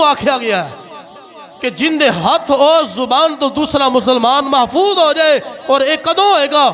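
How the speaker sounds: emphatic sermon oratory with swooping stresses; preaching. Real, not acted. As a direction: call out to the faithful, leaning on key words. (जोशीली तकरीर)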